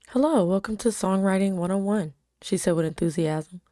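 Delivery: even storytelling read; story narration. A narrator's reading. Reading her story aloud.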